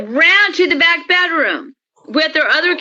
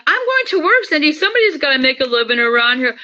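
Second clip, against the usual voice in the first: mimicking her husband, pitched way up and fast; mocking husband voice; 2 semitones higher, faster than usual. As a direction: parody the husband brushing her off. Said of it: "He's like".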